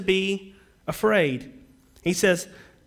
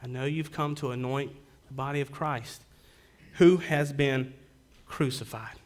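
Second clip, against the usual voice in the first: gentle angel; 3 semitones lower, 3 dB quieter than usual. Acted. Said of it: "He says".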